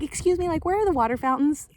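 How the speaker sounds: a hint of a lost stranger, pitch lifted; lightly mocked polite question. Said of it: "they'd be like".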